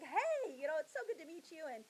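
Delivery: cheery welcome, hurrying past the awkward part; a great uncle putting the new girl at ease, mildly jolly. Retold or imitated. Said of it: "he's all jolly and happy".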